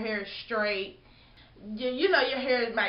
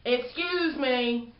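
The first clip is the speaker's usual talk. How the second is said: slow drawn-out excuse me with attitude; snippy drawn-out excuse me; rude excuse me; slower than usual. Shown as a demonstration. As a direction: stretch excuse like you're annoyed. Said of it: "like that".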